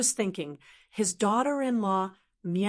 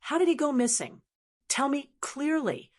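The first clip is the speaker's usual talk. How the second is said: alarmed, hurried; 6 semitones higher than usual. A narrator's reading. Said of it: "He hurriedly asked".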